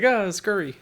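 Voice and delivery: small scurrying fly voice; skittering little fly voice; fly impression. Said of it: "Is that in your impression of a fly".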